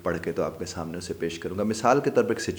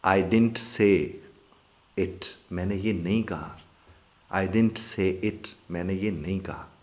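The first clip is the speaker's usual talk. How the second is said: calm denial; slower than usual. Shown as a demonstration. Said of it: "calm final denial".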